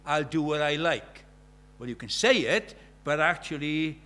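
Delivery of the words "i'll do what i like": slow, loud smug boast; mock carefree defiance. Preacher mocking a careless believer, smug loud boast. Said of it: "You can't say".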